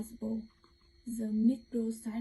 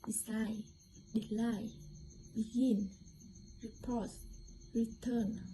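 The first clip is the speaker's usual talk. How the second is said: deCIDE, deCLINE, beGIN, rePORT, reTURN, each stressed on its second syllable. Shown as a demonstration. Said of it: "on the second syllable".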